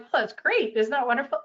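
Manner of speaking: imitating an eager congratulation; mock delighted congratulations. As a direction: gush over the good news. Congratulating on promotion.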